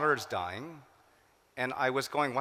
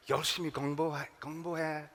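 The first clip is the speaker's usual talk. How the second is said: quick Korean parental nagging, rattled off fast; parents nagging; 3 semitones higher, much faster than usual. Retold or imitated. Son imitating his immigrant parents telling him to study, quick nagging.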